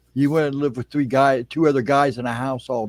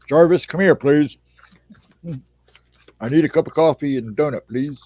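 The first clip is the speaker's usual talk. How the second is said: loud call to a servant; bossy master calling his butler; summoning the butler; 2 semitones higher, 6 dB louder than usual. Pretend. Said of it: "sounds like a butler name".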